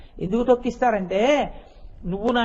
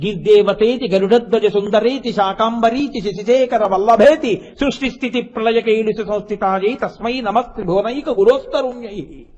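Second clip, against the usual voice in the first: verse recitation. Acted. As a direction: recite the Sanskrit shloka in a steady, intoned chant. Recites Sanskrit verse in discourse.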